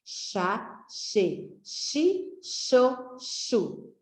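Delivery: each syllable said slowly and separately: chá, che, chi, cho, chu; syllables sounded out. Shown as a demonstration. Teacher sounding out syllables for children, slow and separate. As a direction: sound out the syllables one by one for the class. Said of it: "Quais sílabas?".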